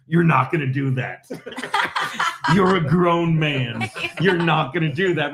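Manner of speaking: Florentine impression. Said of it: "You can imagine Florentine with his actual voice".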